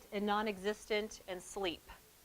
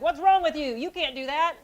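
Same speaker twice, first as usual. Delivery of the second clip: loud, high angry snap; getting in his face; 7 semitones higher, 8 dB louder than usual. Retold or imitated. Adult shouting back at an angry kid, angry retort. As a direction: bark it right back in the kid's face. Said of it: "get back in his face and be like".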